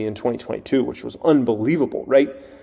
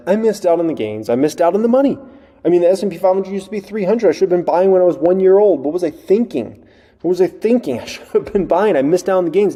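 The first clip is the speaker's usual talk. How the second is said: lightly voiced regret, a bit higher; mock regretful investor; 4 semitones higher than usual. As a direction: whine a little about missed gains, half-joking. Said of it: "looked out at that time and said".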